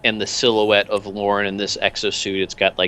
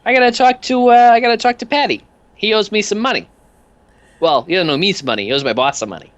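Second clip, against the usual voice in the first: much higher, cheery odd little thug; much higher goofy henchman voice; Peanuts voice; 11 semitones higher, 4 dB louder than usual. Acted. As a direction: chirp the question brightly.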